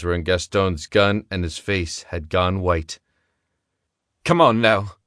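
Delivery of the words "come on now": slightly shaky, nervous plea; soften, voice wavering with fear. A narrator's reading. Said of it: "the gambler said in a shaky voice".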